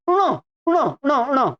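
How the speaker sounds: "ण" as short retroflex syllables with no vowel before; retroflex nasal demo. Shown as a demonstration. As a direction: flick a curled tongue for each "ण". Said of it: "तो इसका उच्चारण बनता है". ("ण" का मूर्धन्य नासिक्य उच्चारण)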